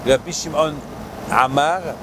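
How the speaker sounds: ordinary delivery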